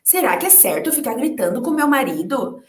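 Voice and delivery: retold inner thoughts. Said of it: "Eu dizia".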